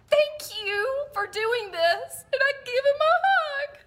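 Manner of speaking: high, squeaky, tearful laughter; words squeezed out through sobs of laughter; crying with laughter. Real, not acted. Teller to her viewers, crying with laughter. Laughing hard while telling story.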